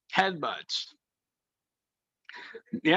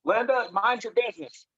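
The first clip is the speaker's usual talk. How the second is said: raised promo warning; wrestling promo voice; 5 semitones higher than usual. Pretend. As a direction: call out like a wrestler. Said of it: "to cut a promo on your boy right now".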